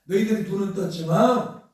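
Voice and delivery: emphatic mild rebuke, pressing on 떴지만; retold rebuke. Preacher voices Jesus reproaching the Jews, retold rebuke. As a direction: retell a reproach, leaning into the last word. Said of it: "책망하는 거예요".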